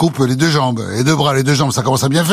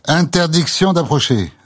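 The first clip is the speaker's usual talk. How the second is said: higher, slow stern order; stern soldier; 6 semitones higher than usual. Retold or imitated. Roman soldier blocks John from the cross, stern and slow. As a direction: bark the ban like a guard.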